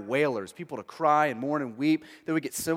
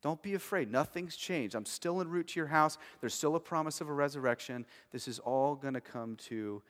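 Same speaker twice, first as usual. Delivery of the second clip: reassuring comfort; 6 dB quieter than usual. Retold or imitated. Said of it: "It's comfort to Jairus".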